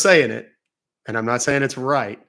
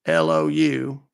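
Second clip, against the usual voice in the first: put-on old man Lou; 4 semitones higher than usual. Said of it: "He was questioning my voice".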